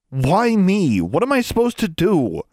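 loud, high pleading demand. A narrator's reading. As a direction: demand it, nearly begging. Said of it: "Alexandra demanded, almost pleaded".

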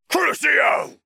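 high, loud cry of a spell; shouted curse. Acted. Sirius casting a torture curse, shouting. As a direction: shout the curse at full force.

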